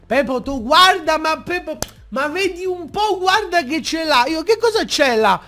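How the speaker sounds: mock coaxing friend; scheming friend. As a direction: lure him over with fake excitement. Friend luring him.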